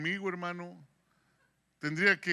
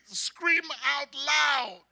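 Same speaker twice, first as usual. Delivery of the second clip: slow, stretched, laughing delivery; joking mock command; 9 semitones higher, 8 dB louder, much slower than usual. Preacher laughing at his own English slip, slow mock order. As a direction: drag it out while chuckling at the slip. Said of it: "como que le dije".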